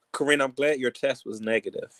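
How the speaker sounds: coughing through the words; coughing fit. Real, not acted. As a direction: speak between coughs. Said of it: "I'm just straight up coughing up here".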